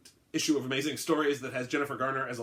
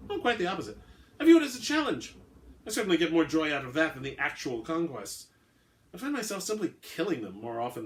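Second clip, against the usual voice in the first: a laugh, then a much higher, louder gloating line; gleeful predator savouring the hunt; amused vampire; 5 semitones higher, 4 dB louder than usual. Acted. Vampire boasting to the hunter about his conquests, gleeful.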